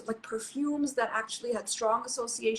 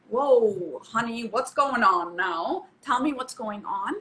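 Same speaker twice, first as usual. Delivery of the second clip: relaxed welcome; 4 dB louder, slower than usual. Shown as a demonstration. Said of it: "this relaxed sense".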